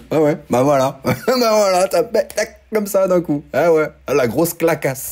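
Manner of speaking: half laugh, half gasp at the price jump; shocked laughing outburst. Real, not acted. Réagit au prix qui double. (il découvre le prix doublé, éclat de rire incrédule et aigu)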